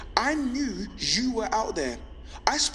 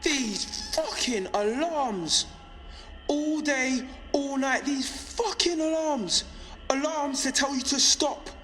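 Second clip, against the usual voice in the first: agitated, higher-pitched rant at normal volume; exasperated rant; 6 semitones higher than usual. Acted. Resistance broadcaster railing at endless alarms, exasperated. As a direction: rail against it in a raised pitch, without shouting.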